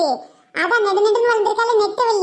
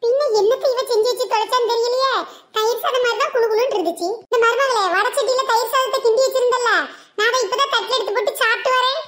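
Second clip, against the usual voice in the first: tamil mother-in-law; 2 semitones higher than usual. Acted. Mother-in-law mocking cooking.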